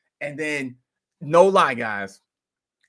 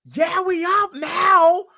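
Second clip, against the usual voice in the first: high slow celebratory mock cheer; excited crowd; 6 dB louder, much slower than usual. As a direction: drawl it out like the chat is celebrating. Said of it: "everybody was like".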